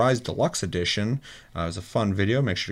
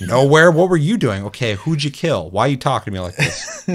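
mock interrogation; 5 semitones higher, 4 dB louder than usual.

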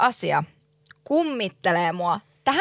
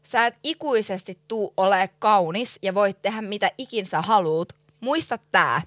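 slow, deliberate retold curse; imitating man's shouted warning. Man calling out queue-jumper, slow retold warning. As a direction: retell a yelled warning slowly, without raising the voice. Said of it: "Se huutaa tälleen mulle".

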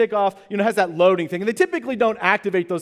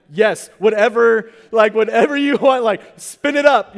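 exasperated yelling; 3 semitones higher, 6 dB louder than usual. Retold or imitated. Parents giving in to toddler.

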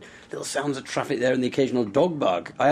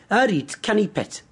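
Geordie accent; 6 semitones higher than usual. Shown as a demonstration. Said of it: "what should we get her to say?".

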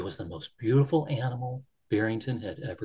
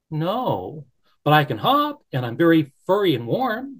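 high, small pleading bunny; little bunny voice; 5 semitones higher, 6 dB louder than usual. Acted. Barrington asks the Beaver to come, high and hopeful. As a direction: ask shyly as a tiny bunny.

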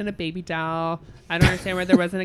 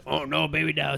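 lower, correcting croc voice; Killer Croc voice; 3 semitones lower than usual. Shown as a demonstration. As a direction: show how the line went. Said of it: "Say that".

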